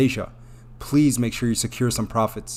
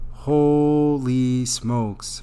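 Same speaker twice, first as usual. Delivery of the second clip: very slow, stretched exclamation of awe; drawn-out amazement; much slower than usual. Real, not acted. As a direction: stretch the first word in astonishment. Amazed at the five billion holding.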